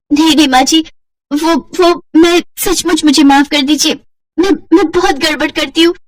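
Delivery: high, begging bride; frightened pleading. Acted. Simran begs her mother-in-law not to burn her, frightened.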